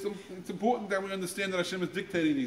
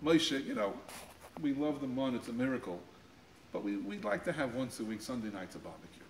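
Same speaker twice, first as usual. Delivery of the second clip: polite request; 4 semitones lower, 6 dB quieter than usual. Retold or imitated. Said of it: "if they would have just said".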